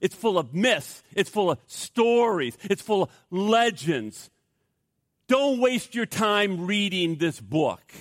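hammed-up scornful pronouncement; scoffing boast. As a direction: play a boastful scholar scoffing, slowing on each dismissal. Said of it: "The man scoffed, and he boasted".

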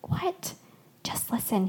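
hushed, breath-only exchange; soft bedside whisper. A narrator's reading. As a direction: whisper so only one person hears.

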